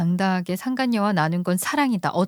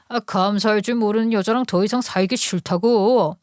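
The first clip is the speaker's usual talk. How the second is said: indignant husband. Acted. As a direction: turn the blame back on the wife. Husband's voice again. (적반하장으로 따지는 남편 목소리)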